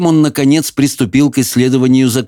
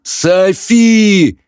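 pleading; 9 semitones higher than usual. A narrator's reading. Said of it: "взмолился Хоул".

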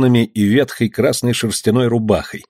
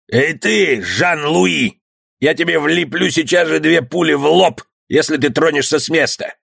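threatening bandit; 6 semitones higher than usual. Acted.

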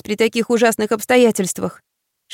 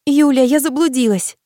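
quick panicked blurt, a bit higher; 5 semitones higher than usual. A narrator's reading. Lost girl blurts to her friend on the phone, panicked blurt. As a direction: blurt it out in a rush. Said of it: "выпалила я".

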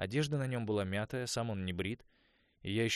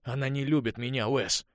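louder, higher bitter outcry; 5 semitones higher, 9 dB louder than usual. A narrator's reading. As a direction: spit out the hurt. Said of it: "с горечью проговорил Конор". (Конор с горечью кричит Уэсу)

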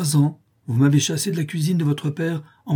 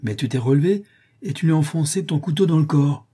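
frightened plea; 5 semitones higher, 3 dB louder than usual. Acted. Potter distraught, pleading.

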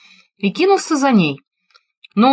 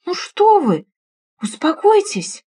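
soothing; 10 semitones higher, slower than usual. Acted. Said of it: "пробовала успокоить её Ирина".

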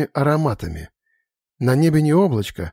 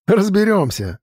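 a light laugh, pitched well up; laughing, much higher; 7 semitones higher than usual. A narrator's reading. Santor reassures the elf, laughing much higher. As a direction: brush it off with a laugh. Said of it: "рассмеялся Сантер".

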